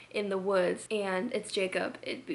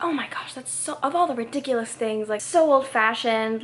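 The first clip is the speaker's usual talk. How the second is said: emphatic retold complaint, louder at the end; mock exasperation; 7 dB louder than usual. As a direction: imitate an exasperated girlfriend, stretching the last words. Mimics Bella complaining about Edward.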